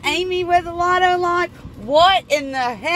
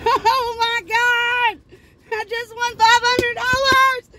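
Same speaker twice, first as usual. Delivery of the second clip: slow, higher, laughing in disbelief; stunned laughing; 5 semitones higher, much slower than usual. Real, not acted. Scratching a winning ticket, laughing slowly in disbelief. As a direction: laugh it out, can't believe it. Realizing she won again.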